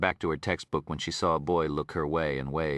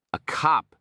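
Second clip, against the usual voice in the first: whispered disbelief; 9 semitones higher, 5 dB louder than usual. Acted. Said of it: "Geneva whispered in disbelief".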